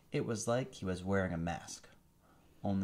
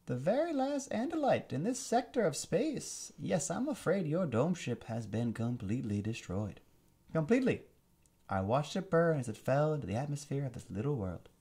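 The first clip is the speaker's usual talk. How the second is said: villain voice; 7 semitones higher, 4 dB louder than usual. Acted. Alien commander gloating over captured prince, high sneering villain voice. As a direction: savor every word like a gloating tyrant. Visser voice.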